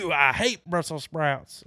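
lightly voiced goofy Ernest. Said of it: "He's like".

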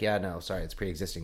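lightly voiced official brushing off a patient; dismissive bureaucrat. Acts out hospital refusing a claim.

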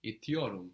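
İtiyorum with a clear T, not D; unsoftened T in İtiyorum. Shown as a demonstration. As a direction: keep the T hard in İtiyorum. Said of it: "The T won't soften here".

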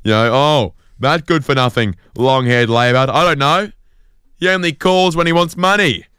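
rising into a high, put-on voice; imagined mum's grumble. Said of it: "And I thought".

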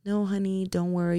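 gentle imitation of a calm husband; calm reassurance. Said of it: "You were so calm".

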